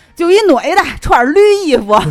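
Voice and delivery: put-on Tianjin accent. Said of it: "就爆出天津话说".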